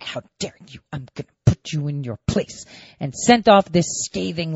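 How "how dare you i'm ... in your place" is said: hushed, hissing mock rage, much softer; imitating an enraged lawmaker in a low hiss; mock furious Schiff. Mocking Schiff reacting to the lawyer's refusal, hissed fury. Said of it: "And Schiff blew his top".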